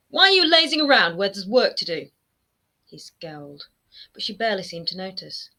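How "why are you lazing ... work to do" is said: higher, louder scolding mother voice; mother nagging her idle son. A narrator's reading. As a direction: scold him for lazing about.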